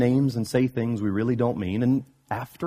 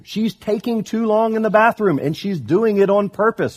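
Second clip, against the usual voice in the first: much higher whining tattletale; hammed-up indignant cub; whiny Brother Bear; 10 semitones higher, 6 dB louder than usual. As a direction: complain to dad like a wronged kid. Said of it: "Brother Bear says".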